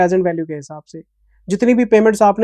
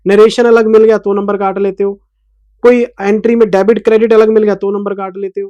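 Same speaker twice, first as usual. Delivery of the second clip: angry rant; 5 dB louder than usual. Real, not acted. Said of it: "मैं इसलिए sir गुस्से में बोल रहा हूँ".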